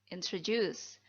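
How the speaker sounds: "introduce." repeated clearly, falling at the end; pronunciation model. Shown as a demonstration. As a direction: repeat "introduce." plainly to drill it. (ulangi "introduce." dengan jelas)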